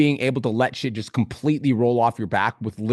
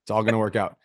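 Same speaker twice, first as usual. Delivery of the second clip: mantra. Shown as a demonstration. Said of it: "That's your mantra".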